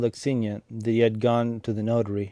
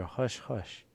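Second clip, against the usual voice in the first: hushing; 10 dB quieter than usual. A narrator's reading. Varvara hushing the shouting.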